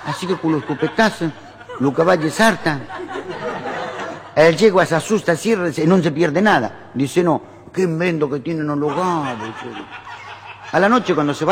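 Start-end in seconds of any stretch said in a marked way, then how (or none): 0.1-6.9 Italian immigrant. Acted. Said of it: "y el italiano lo mira al dueño". 7.2-9.8 put-on slow, drawn-out Italian-accented wonder; Italian immigrant. Italian gardener admiring the gaucho invention, Italian-accented wonder. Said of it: "el italiano lo mira al dueño y dice".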